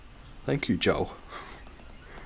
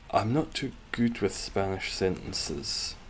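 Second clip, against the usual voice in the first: usual speaking voice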